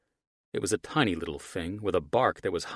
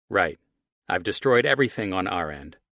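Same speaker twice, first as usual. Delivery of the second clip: villain on phone; 5 dB louder than usual. Acted. Archie on phone.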